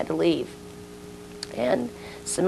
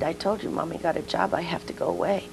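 put-on softer, soothing mother to child; gentle explaining; 6 dB quieter, faster than usual. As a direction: explain it softly to a small child.

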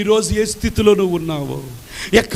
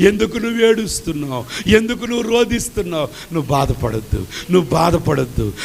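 tender comforting; 3 semitones lower than usual. Acted. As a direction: soothe a weeping woman gently. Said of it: "ప్రభు మన పక్కన కూర్చొని మన కన్నీళ్లు తుడుస్తూ". (ఏడుస్తున్న స్త్రీని ఓదారుస్తూ మృదువుగా)

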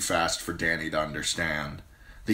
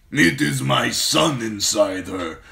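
very slow, loud, higher warlord boast; proud khal; 6 semitones higher, 9 dB louder than usual. Acted. Khal praises his fierce wife, slow loud boast. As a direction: savour her fierceness aloud. Drogo warns his riders.

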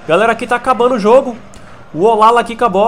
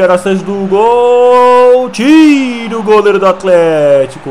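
excited commentary; 5 dB louder, much slower than usual. Acted. Near miss on corner.

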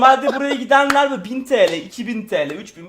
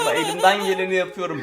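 stifled giggles; 3 semitones lower than usual. Real, not acted. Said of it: "gülmemek için kendimi tutuyorum".

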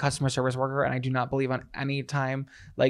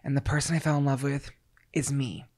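diary reading; 5 dB quieter than usual. Acted. Mock diary entry.

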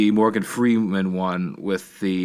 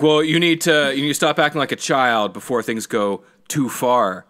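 stern dad; 4 semitones higher, 3 dB louder than usual. Retold or imitated. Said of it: "the dad's like".

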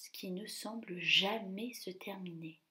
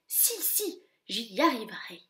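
stubborn stepsister. Acted. Anastasie forcing the slipper on, stubborn whine. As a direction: refuse to give up. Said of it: "la furie s'entête".

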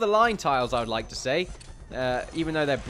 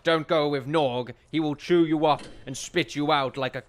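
troll voice; 3 semitones higher, 5 dB louder than usual. Acted. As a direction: warn them off like a hammed-up troll. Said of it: "sounds like a troll".

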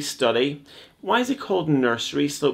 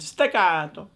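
Staccato with a playful Italian lilt, pitched higher; Italian accent; 4 semitones higher than usual. Shown as a demonstration. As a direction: roll out Staccato like a proud Italian. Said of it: "Can you say that in an Italian accent?".

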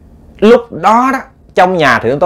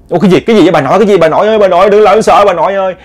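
scared asking; 5 semitones higher, 3 dB louder, much faster than usual. Retold or imitated. Scared girls question grandmother.

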